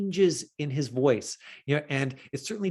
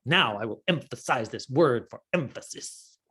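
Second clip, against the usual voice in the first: mock actory emphasis. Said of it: "an actor who's like".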